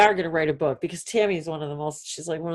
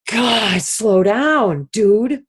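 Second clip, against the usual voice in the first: telling herself off; 3 semitones higher, 6 dB louder, much slower than usual. Retold or imitated. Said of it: "And I'm like".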